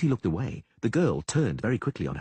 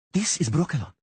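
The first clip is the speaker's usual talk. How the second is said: proud; 7 semitones higher, 4 dB louder than usual. A narrator's reading. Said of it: "she said proudly".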